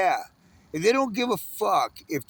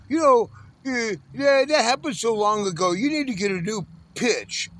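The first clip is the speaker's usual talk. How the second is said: passing driver; 5 semitones higher than usual. Retold or imitated. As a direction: play the know-it-all stranger giving advice. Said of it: "He goes".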